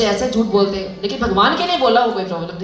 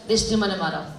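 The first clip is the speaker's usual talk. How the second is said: धृष्टद्युम्न said again softly and lower; quiet repeat; 3 semitones lower, 6 dB quieter, faster than usual. Shown as a demonstration. Teacher confirming the answer softly to students. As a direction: let धृष्टद्युम्न fall away gently.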